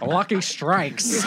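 slow vintage radio ad read; old-timey ad announcer. Pretend. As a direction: sell it like an old cigarette ad. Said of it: "Say that with an old-timey voice".

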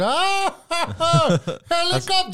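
high yelled heckle with a laugh; mock heckle yell. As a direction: shout it out like a drunk heckler. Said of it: "Just start yelling crazy shit".

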